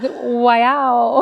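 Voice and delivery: "Wow" as why and wow mixed; "Wow" with a why at the front; why-wow blend. Shown as a demonstration. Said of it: "like a why and a wow mixed together".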